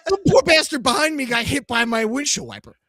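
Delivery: laughing while telling it. Real, not acted. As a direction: chuckle through the line. Laughing retelling mishap.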